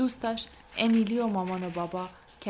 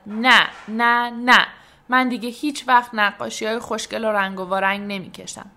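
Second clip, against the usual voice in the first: upset shout; 2 semitones higher, 9 dB louder than usual. A narrator's reading. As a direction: shout it like an upset child storming off. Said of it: "فریاد زد".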